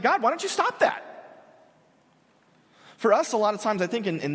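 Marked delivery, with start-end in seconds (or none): 0.0-1.0 pleading cry. Retold or imitated. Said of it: "And he's like".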